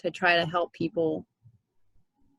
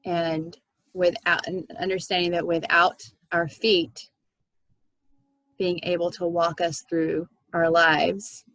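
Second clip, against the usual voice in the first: guided meditation. Acted. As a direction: guide the group gently into relaxation. Leads a meditation.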